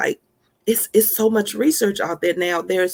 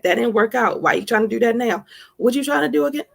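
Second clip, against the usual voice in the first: taunting inner voice, pitch leaping up on What; mocking inner critic; 3 semitones higher, faster than usual. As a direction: sneer at yourself like the doubting voice in your head. Voicing her negative inner critic.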